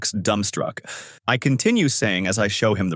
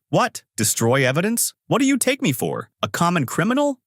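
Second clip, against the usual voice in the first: indignant yell, much higher on What; yelling owner; 8 semitones higher than usual. A narrator's reading. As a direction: shout it out, outraged and high. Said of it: "The shop owner yells".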